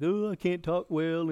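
doubtful Moses. Acted. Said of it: "like, in doubt".

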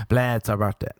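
pushy mock plea at full voice; insistent demand. Friends pestering the DJ for birthday girl, insistent. Group demanding song, against low refusal.

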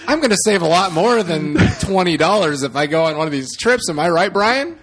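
over eager infomercial. Pretend. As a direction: sell it like a late-night TV ad. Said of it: "Your infomercial voice is fucking".

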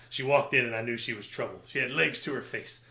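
pulp noir narrator voice; lightly voiced hard-boiled detective. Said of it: "gonna be like this pulp noir".

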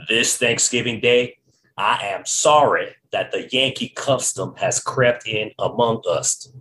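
lightly hammed Southern accent, drawn out at the end; bad Southern accent. Quoting a Mississippi physician on the Yankee custom, bad Southern accent. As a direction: attempt a so-so Southern drawl. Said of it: "That was a really bad Southern accent".

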